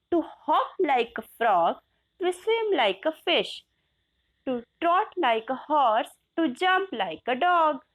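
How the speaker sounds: slow, measured reading of the verse; slow poem recitation. Shown as a demonstration. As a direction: recite each line evenly to the class.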